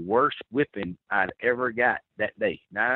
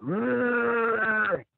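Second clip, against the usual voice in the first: imitated creature noise; 10 semitones higher than usual. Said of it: "it's doing this".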